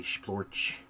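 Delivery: hushed, voiceless squelch sound; wet splat noise. Retold or imitated. Game master voicing a monster's eye bursting, wet splat noise. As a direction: make the splat with your mouth.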